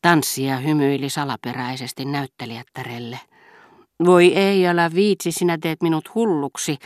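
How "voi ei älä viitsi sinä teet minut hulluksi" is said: loud cry, higher at the start; shouting. A narrator's reading. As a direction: throw it out, exasperated and playful. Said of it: "huusi Rachel".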